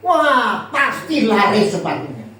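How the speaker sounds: mock excited salesman; voicing an eager report to the boss; optimistic report.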